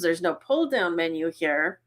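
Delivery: talking through a held-in sneeze; holding back a sneeze. Real, not acted. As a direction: hold back a sneeze while speaking. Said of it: "Sorry, I'm trying not to sneeze".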